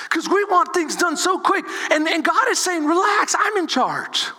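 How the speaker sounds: high, impassioned preaching. Real, not acted. Preaches at full force.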